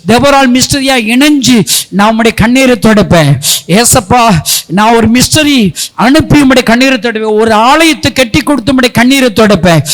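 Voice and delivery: loud, impassioned prayer leading, words pushed out; fervent prayer. Acted. Pastor leading the congregation in prayer, loud and fervent. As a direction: pray at full force over the congregation.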